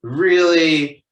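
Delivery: drawn-out, loud, incredulous protest; acted-out teenage exasperation; exasperated disbelief. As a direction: groan the words out, pleading that it's no big deal. Reacting to mom crying, retold.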